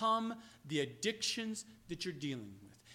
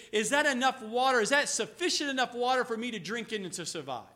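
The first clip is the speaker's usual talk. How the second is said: thirsty plea; 6 dB louder, faster than usual. Retold or imitated. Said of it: "and you say".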